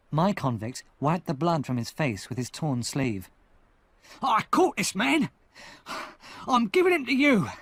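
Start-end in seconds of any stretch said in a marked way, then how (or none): 4.2-7.5 high, loud triumphant cry; cried out. Acted. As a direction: shout it at the soldiers. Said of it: "he cried".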